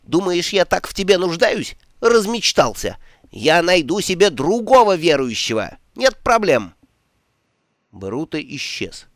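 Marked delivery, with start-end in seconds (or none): 0.0-6.7 high, loud furious yelling. Acted. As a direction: scream it after him, high and loud. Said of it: "орал Ом".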